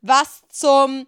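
a loud, shocked cry from the father; the father walks in on the kiss and blurts it out in shock. Acted. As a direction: blurt it out, caught off guard. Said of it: "Und er schaut schockiert".

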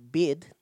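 "bid" with a New Zealand vowel. Shown as a demonstration. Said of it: "New Zealander, you just say".

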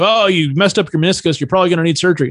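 imitated medical staff. Voicing urgent care staff's verdict.

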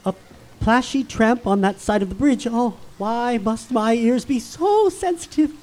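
soft, low, frightened hush; fearful hush. Acted. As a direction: keep it hushed and scared. Hearing something in dark.

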